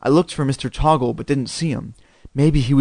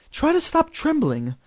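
comforting mom; 14 semitones higher than usual. A narrator's reading. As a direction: coax a trembling child, pitched well up. Mom comforts shaking child.

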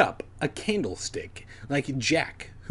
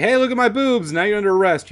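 mock cop voice; 9 semitones higher, 7 dB louder, much faster than usual. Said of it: "if they're like".

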